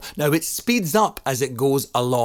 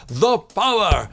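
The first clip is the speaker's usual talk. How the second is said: shouted; 5 semitones higher than usual. Shown as a demonstration. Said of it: "and then you shout".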